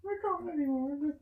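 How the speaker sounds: high, laughing, can't breathe; crying with laughter; high squeaky laughing voice; helpless laughter. Real, not acted.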